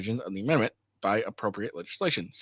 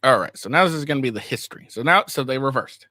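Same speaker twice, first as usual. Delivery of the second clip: excited; 3 semitones higher, 6 dB louder than usual. Real, not acted. Reacts to the reversal.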